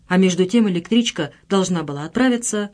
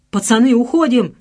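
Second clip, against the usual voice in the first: louder urgent call to run; shout; 5 semitones higher, 6 dB louder than usual. A narrator's reading. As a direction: yell to get out now. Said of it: "крикнул Космос".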